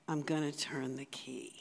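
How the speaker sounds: hushed trusting whisper. Acted. Believer resolving to trust Jesus, whispered softly. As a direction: breathe it like a quiet decision. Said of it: "A relational view of God says".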